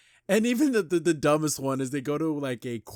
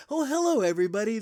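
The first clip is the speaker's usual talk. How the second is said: much higher and louder, beaming showman greeting; overly exuberant animal trainer; 8 semitones higher, 6 dB louder, faster than usual. Retold or imitated. Animal trainer greets the aquarium crowd, overly exuberant. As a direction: gush like a trainer who has to be this way. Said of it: "you have the overly exuberant".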